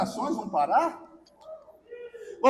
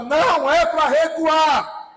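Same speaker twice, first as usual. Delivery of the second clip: forceful, drawn-out command; voice of authority; 3 dB louder, much slower than usual. Shown as a demonstration. Preacher modelling it for the congregation, voice of authority. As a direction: say it with full authority, leaning on each word. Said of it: "Mas fala com voz de autoridade".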